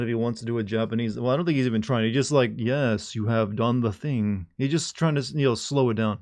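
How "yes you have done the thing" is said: wise sensei voice. Retold or imitated. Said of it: "the wise sensei voice".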